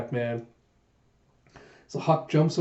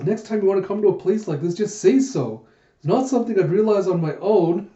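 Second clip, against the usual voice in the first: miffed scolding; 5 semitones higher, 3 dB louder than usual. Acted. Yona scolding Huck.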